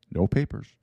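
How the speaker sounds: amateur film-captain impersonation; a hint of the submarine captain; Sean Connery. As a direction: lightly imitate a Scottish movie star. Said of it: "That's my Sean Connery".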